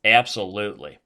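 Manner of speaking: punchy mock Aussie accent. Shown as a demonstration. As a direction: show off a broad Aussie accent. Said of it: "master the Aussie accent".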